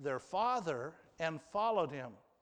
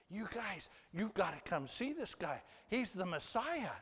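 eager new believer; 3 semitones higher, 5 dB quieter than usual. Retold or imitated. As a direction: gush like a mildly excited new convert. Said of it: "you ever seen a new believer like that?".

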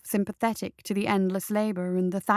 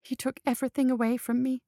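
tearful; 3 semitones higher than usual. Acted. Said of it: "as a single tear rolled down".

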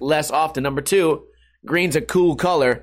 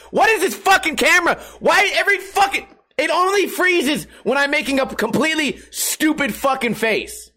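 real annoyance boiling over at a frozen camera; real frustration; 11 semitones higher than usual. Real, not acted. Streamer yelling at his freezing camera in real frustration. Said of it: "I'm getting so mad at this fucking camera".

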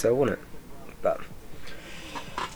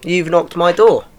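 loud, raised-pitch telling-off at the door; indignant rant; 7 semitones higher, 5 dB louder than usual. Retold or imitated. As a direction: tell them off, you came to me. Ranting at trick-or-treaters at door.

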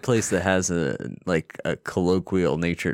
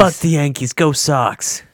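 mock fan cheer; 7 semitones higher, 5 dB louder than usual. Mock Boston fan chant.

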